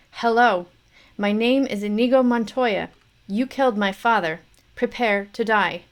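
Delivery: avenging son shouting at his father's killer; strong challenge. Acted. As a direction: declare it to the enemy. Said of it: "repeated challenge, growing".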